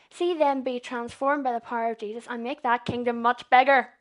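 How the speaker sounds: swelling into a loud preaching peak; got too loud. Real, not acted. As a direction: let it build until it booms. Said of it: "I didn't mean that to get very loud".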